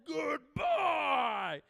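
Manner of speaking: very high, very loud cheerful yell; mock shout. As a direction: bellow it like waving it off. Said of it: "dudes would just be like".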